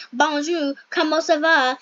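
a touch of French accent on Bonjour, comment ça va; playful French hello; French greeting. Shown as a demonstration. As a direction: show off the French, lightly. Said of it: "I know French".

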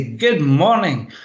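slow, smiling "Good morning." with a falling close; smiling greeting. Shown as a demonstration. Trainer switching on for a session, smiling slow greeting. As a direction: greet the room with a smile, slowly. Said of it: "I would clap my hands, smile, and say".

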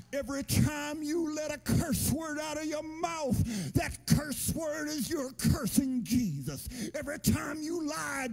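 preaching at full force, rising. Real, not acted. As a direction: preach it hard to the congregation. Preacher building to a shout.

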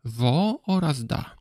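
"wo oraz da" as two slow, separate syllables. Shown as a demonstration. Teacher splits woda into two syllables, slow and separated. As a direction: draw out "wo", then "da", slowly. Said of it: "dwoma znakami oznaczającymi sylaby".

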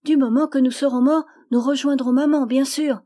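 put-on high, loud, happy child's voice; a child cheerful about meeting mother; high, bright and loud; relieved little girl. A narrator's reading.

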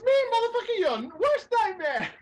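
high, menacing put-on woman's voice; Esther. Imitating the sketch woman taunting Satan, menacing. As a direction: announce yourself with hammed-up menace. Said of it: "Esther's like".

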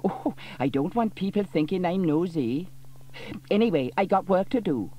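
high, loud defensive mum; flustered busybody. A narrator's reading. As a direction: hide her nosiness. Dilys covering nosiness.

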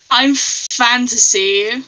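laughing. Pretend.

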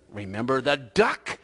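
slow, pointed threat; teasing little blackmailer; sly blackmail. Acted. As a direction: stretch the reminder out menacingly. Sally repeats her blackmail.

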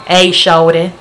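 half-hearted Southern accent impression; attempted Southern accent. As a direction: imitate a Southern guy's voicemail. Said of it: "with the only Southern accent".

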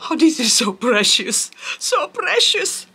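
high-pitched, doting coo; adoring coo. Real, not acted. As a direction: coo over something tiny and precious. Coos over a small plant.

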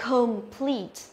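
"complete" said slowly, unstressed schwa in com; careful teacher demo of "complete"; correct pronunciation demo. Shown as a demonstration. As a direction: model "complete" with a weak first vowel and long falling PLEET. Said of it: "phương án A này chúng ta đọc".

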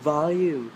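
volume as "VOL-yum"; correct pronunciation. Shown as a demonstration. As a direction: repeat volume carefully with the Y glide. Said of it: "ออกเสียงว่า volume".

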